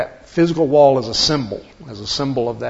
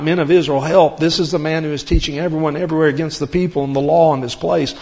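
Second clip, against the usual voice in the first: raised, urgent cry of the crowd; loud crowd cry from scripture read aloud; 3 semitones higher, 5 dB louder than usual. Acted. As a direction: call out to the whole crowd for help. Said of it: "crying out".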